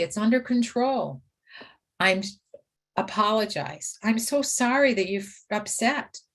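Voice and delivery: calm, soothing caregiver reassurance; reassuring. Shown as a demonstration. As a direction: settle an upset client gently. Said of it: "Be reassuring, be calm".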